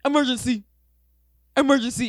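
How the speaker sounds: very high, loud siren-like screaming; blaring, repeated shriek, hammed-up; imitated scream. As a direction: mimic a woman screaming the alarm. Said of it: "that's exactly how she screamed it".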